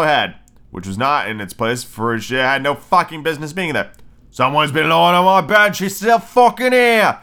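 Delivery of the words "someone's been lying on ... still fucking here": high, loud little bear, climbing higher; wee little bear. Acted. Wee bear finding Goldilocks in bed, shrill little voice. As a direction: shriek it upward, stretching the last words. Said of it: "in his wee little voice".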